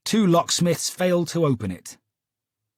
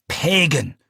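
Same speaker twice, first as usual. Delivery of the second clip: building to a much higher, louder shout; each insult rising higher in fury; 6 semitones higher, 4 dB louder, much slower than usual. Acted. Client to Holmes, shouting a string of insults. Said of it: "she shouted".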